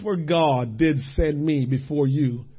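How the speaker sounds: soft, low, slow reading; hushed scripture. Acted. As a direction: read it reverently, barely aloud.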